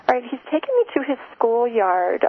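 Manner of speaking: tearful. Real, not acted. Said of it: "I'm getting emotional".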